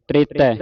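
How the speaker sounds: ਤ੍ਰੇਤੈ said as tretai with a clear r after t; careful pronunciation. Shown as a demonstration. Teacher shows students the sounds of ਤ੍ਰੇਤੈ. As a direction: voice the half r in ਤ੍ਰੇਤੈ. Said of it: "ਤ੍ਰੇਤੈ ਉਚਾਰਨ ਕਰਨਾ ਹੈ".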